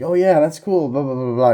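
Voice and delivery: lightly hammed-up friendly chatter; mock jolly banter. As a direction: parody a chummy, agreeable character.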